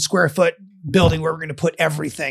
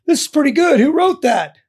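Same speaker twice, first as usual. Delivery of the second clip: imitating boss; 9 semitones higher, 4 dB louder than usual. Boss Rich quoted.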